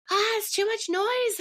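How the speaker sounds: overwhelmed mother's frustrated exclamation; frustrated outburst. Retold or imitated. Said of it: "instantly frustrated".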